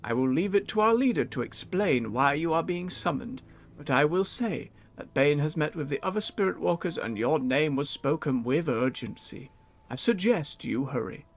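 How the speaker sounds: calm, measured wise elder voice; serene spirit walker. Acted. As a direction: read it like a serene mystic. Reads NPC Spirit Walker lines.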